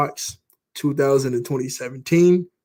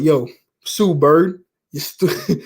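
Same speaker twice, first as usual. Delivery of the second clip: imitating an old dude; much slower than usual. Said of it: "act like this old dude".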